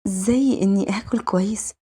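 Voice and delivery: lightly voiced innocent little girl; a hint of a child missing her parents; wistful young girl. Young girl confiding that she misses mum and dad, lightly girlish and wistful.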